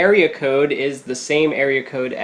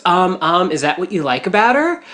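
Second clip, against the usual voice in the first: slightly higher imitated Valley Girl; mock Valley Girl, rising into the question; a touch of giddy Valley Girl; Valley Girl accent; 4 semitones higher than usual. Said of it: "it's like that Valley Girl accent too".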